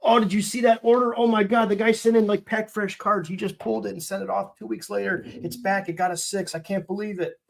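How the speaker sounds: high, excited mock gossip voice; mimicking commenters gossiping about the order, high and excited. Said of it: "It's gonna be like".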